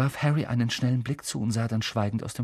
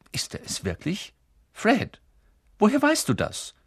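put-on pleading little girl; 11 semitones higher than usual. Little sister begging mom to see Harry, high pleading girl. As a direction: beg like a small girl who wants her way.

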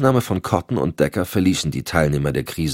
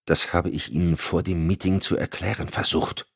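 softer, annoyed murmur; irritated murmur; 5 dB quieter than usual. Acted. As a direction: gereizt geraunt. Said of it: "raunte Decker gereizt".

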